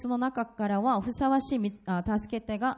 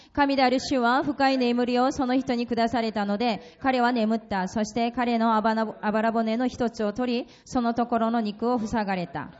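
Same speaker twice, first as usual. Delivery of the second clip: scripture reading; 4 dB louder than usual. Acted. Interpreter reads scripture aloud.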